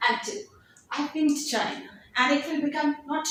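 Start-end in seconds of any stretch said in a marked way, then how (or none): 0.9-1.9 "been" shortened to a quick bin; weak form of been. Shown as a demonstration. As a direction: say "I've been to China" with a clipped bin. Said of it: "been into bin".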